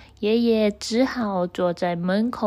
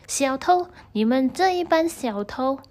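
angry shout; 3 semitones higher than usual. Acted. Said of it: "很生气地喊着".

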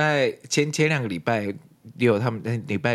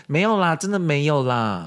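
evasive denial; 8 semitones higher, 4 dB louder than usual. Acted. Acting a friend denying trouble.

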